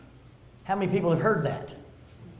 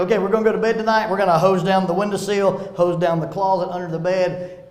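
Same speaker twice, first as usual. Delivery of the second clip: cheerful dad bedtime pep talk; 7 dB louder than usual. Retold or imitated. Dad reassures daughter, laughing.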